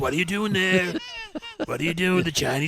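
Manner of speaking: loosely imitated, slow-ending politician voice; Trump. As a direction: stretch it out in a rough political impression. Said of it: "And I'm doing Trump now".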